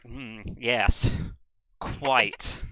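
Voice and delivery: mock British. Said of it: "Artemis is like".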